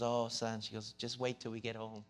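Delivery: hushed and soft, a mild mock whisper; a mother's quiet warning, half-voiced, not truly whispered; softly imitating mom's whispered threat; retold whisper. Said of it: "she just kinda whispered in my ear".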